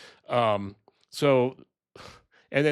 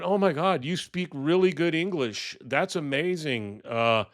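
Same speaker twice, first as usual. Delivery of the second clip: imitating Trump, higher and gushing; imitating Trump fawning over the Liberian president, higher; mock Trump; 4 semitones higher than usual. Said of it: "and he's just going".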